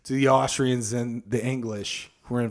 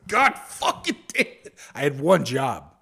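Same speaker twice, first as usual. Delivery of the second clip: mock exasperation; 3 semitones higher than usual. Officer hearing Napoleon escaped.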